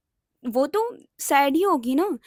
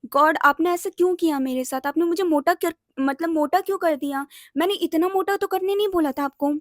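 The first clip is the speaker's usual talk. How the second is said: blaming God. Retold or imitated. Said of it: "मैं God को blame करती थी".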